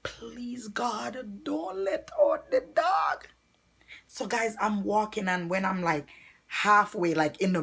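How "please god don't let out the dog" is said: whispered prayer. Retold or imitated. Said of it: "And I was like".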